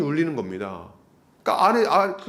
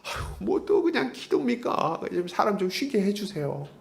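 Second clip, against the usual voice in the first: higher, weary whine; higher-pitched mock moan; whiny complaint; 4 semitones higher, 4 dB quieter than usual. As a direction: grumble for rest. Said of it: "이렇게 하면서".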